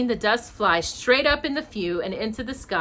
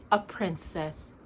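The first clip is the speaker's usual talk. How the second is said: deep and slow; 3 semitones lower, 6 dB quieter, slower than usual. Acted. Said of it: "cursedly deeply".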